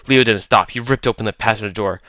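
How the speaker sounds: ordinary delivery, nothing marked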